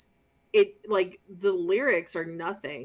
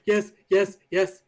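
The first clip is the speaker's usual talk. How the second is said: louder, hammed-up ecstatic yes; mocking gushing agreement to the cashier; mock rapturous yes; 2 semitones higher, 9 dB louder, slower than usual. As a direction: overplay the devoted fan. Mock reply to satanist cashier.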